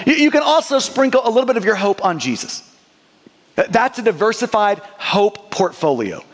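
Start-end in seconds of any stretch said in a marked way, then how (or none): 0.1-2.6 lightly voiced tempter, quick sing-through list; the flesh talking. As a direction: coax breezily, item after item. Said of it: "So the flesh looks at us and says".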